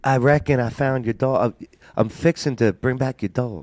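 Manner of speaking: put-on Southern accent; big Southern voice. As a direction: play it as a folksy Southerner. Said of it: "a big Southern voice".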